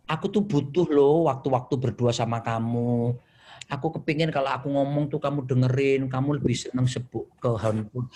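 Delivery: mild, gently plaintive imitation of wife; non-accusing appeal. Wife asking husband for time together, mild non-accusing plea. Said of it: "tapi dia nggak nuduh".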